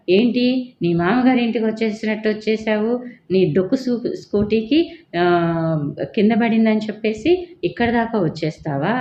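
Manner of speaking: acted-out scolding, only lightly heated; retold angry outburst. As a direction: retell an indignant telling-off without shouting. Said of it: "ఇంత ఎత్తున గయ్యని లేస్తాడు".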